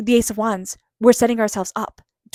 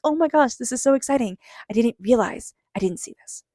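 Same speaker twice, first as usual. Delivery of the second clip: mock excited gasp, pitched higher; gushing at a surprise present, lightly acted; imitating excitement; 3 semitones higher than usual. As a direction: play the delighted finder of a forgotten gift. Finding a gift after Christmas.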